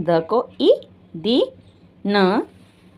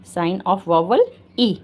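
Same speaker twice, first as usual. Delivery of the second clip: slow dictation; much slower than usual. Shown as a demonstration. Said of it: "teacher dictating the term".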